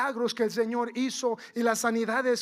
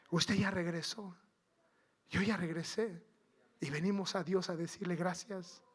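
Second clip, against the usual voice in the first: low, soft, pointed aside; hushed aside; 4 semitones lower, 8 dB quieter than usual. Real, not acted. Preacher asking worshippers if they returned, quietly. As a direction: drop the voice and address them softly. Preacher drops voice to address congregation.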